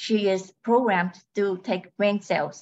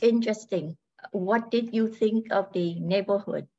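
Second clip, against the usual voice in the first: robot voice. Acted. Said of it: "She speaks in a robotic voice".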